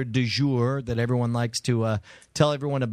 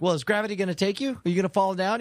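quick, higher-pitched teasing questions; playful goading, hurried; mock bullying; 4 semitones higher, faster than usual. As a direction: needle them with rapid mock-innocent questions. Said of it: "I kinda bullied you".

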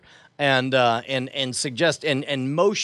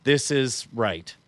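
head bowed in submission; 5 semitones lower, slower than usual. Acted. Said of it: "with my head bowed down".

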